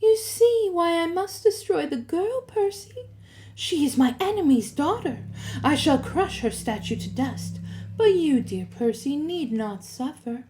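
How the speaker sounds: sweetly menacing reassurance; comforting purr. A narrator's reading. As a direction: purr it to lull the listener. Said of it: "her voice modulated back to a comforting purr".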